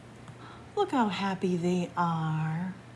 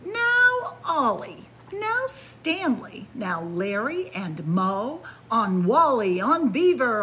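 calling out loud and higher; shouting names; 5 semitones higher, 5 dB louder than usual. Acted. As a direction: call the turkeys across the barnyard. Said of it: "He whistled and shouted and called them".

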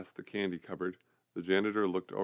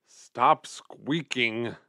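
muttering; 3 semitones higher, 6 dB louder, much slower than usual. A narrator's reading. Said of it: "the janitor muttered".

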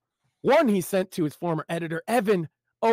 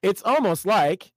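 slow drawn-out pause; 3 semitones higher, 6 dB louder than usual. Acted. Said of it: "paused with a hideous grin".

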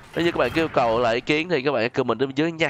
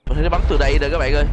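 excited; 6 dB louder, much faster than usual. Real, not acted. Excited gamer calling to viewers.

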